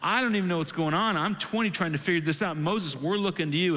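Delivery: lightly acted confused kid appealing to the leader; bewildered young follower. Twenty-year-old kid appealing to Moses, mildly bewildered. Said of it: "the twenty-year-old kid in the group is going".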